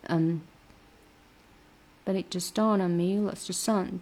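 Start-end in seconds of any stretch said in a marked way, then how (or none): 2.0-4.0 "dawned" and "son" given weight; stress on dawned and son. Shown as a demonstration. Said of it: "这个dawn和son要有重读".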